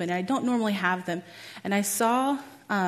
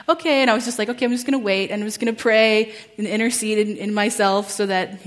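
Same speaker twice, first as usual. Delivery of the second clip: flustered retelling; 6 dB louder than usual. Retold or imitated. Speaker telling herself to wait and pray, acted fluster. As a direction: replay scrambling to cope. Retold flustered resolve while she cries.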